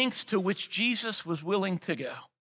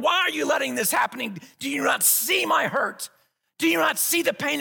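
pleading anguished cry; crying out to God; 6 semitones higher than usual. Acted. Believer voiced crying out to the Lord, anguished plea. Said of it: "we cry out to the Lord".

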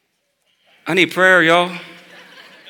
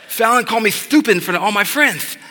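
put-on higher singsong child complaint; sing-song it like a hurt little girl; whiny little girl; 8 semitones higher than usual. Daughter repeats her complaint.

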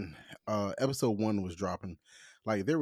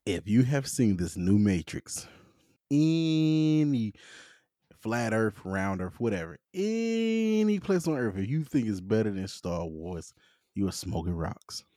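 leaning into the mic. Real, not acted. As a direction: close to the mic, emphatic. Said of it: "I'ma lean into the mic".

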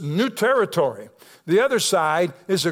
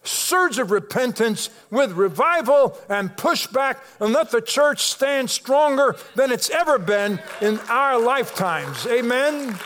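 fervent prayer; 5 semitones higher than usual. Acted. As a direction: pray it out over the congregation, rising.

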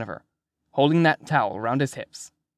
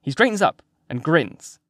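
ordinary delivery, nothing marked

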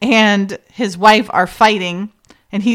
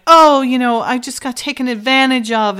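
mock forlorn; 4 semitones higher than usual. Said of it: "forlorn and like".

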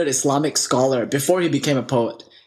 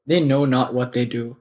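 gentle forgiving; 4 semitones lower than usual. Retold or imitated. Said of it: "He looks and he says".

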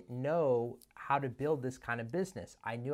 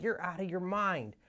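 high-pitched mock disbelief; incredulous Ken; 6 semitones higher than usual. Ken to the cold caller at eleven, high incredulous voice. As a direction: play him as a man who thinks the caller's lost it.

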